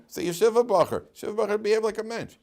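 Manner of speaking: rebuking a careless student; scolding. Retold or imitated. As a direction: wag a finger at the yeshiva boy.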